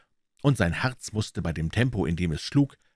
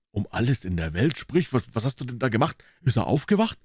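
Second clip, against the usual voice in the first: put-on higher urgent boy voice; anxious boy; 5 semitones higher than usual. Huck urging Tom to speak, anxious voice. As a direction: press him anxiously.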